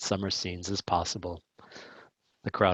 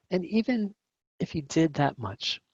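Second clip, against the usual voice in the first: whisper; 7 semitones higher than usual. A narrator's reading. Aside in narration.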